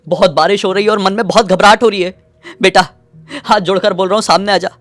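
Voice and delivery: high, loud panicked calling for a lost daughter; frantic father calling. Acted. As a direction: plead with rising panic, calling out. (घबराए पिता की ऊँची, ज़ोरदार पुकार)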